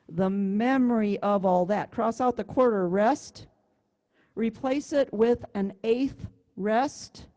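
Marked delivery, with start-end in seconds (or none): 0.1-1.9 MEMORY leaned on at its first syllable, THE kept light; stress on MEMORY. Shown as a demonstration. Teacher applying the fix to second line, stress on MEMORY. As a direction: land on the MEM of MEMORY in rhythm. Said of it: "do the same thing on the second line".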